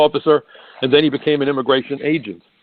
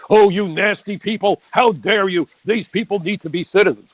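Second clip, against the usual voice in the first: lightly mock a scandalised Democrat; mock indignant yell; 6 semitones higher than usual. Democrats scolding Republicans, mock outraged and higher. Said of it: "the Democrats yell at the Republicans".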